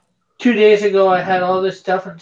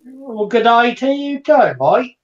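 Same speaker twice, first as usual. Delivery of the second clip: slow, higher-pitched Australian greeting; playful Australian twang, slowly; mock Australian accent; 5 semitones higher, slower than usual. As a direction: draw it out in a put-on Australian accent. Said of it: "I'm terrible with accents".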